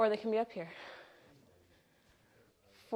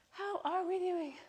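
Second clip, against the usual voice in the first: higher sing-song check-in; 7 semitones higher, 7 dB quieter than usual. Real, not acted. Coach checking on the class, pitched up and softer. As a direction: repeat it pitched up, softer, playful.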